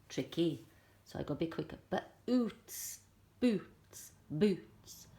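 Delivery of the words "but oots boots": But then oots split apart; mistaken blend. Shown as a demonstration. Teacher showing her blending mistake. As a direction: blend it wrong with the b separate. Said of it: "I sort of did a little mistake".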